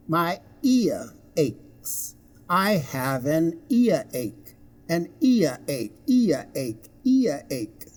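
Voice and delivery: "ear" said as ee-uh inside "earache"; two-sound diphthong. Shown as a demonstration. Teacher models example phrases, "earache" carefully sounded. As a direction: separate the glide in "ear" carefully. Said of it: "this thing is pronounced".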